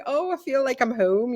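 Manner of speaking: high-pitched, mildly emotional retelling; retold tearful relief. Retelling the feeling of home, mock-tearful relief. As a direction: replay being moved, voice lifted high. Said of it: "I started to cry".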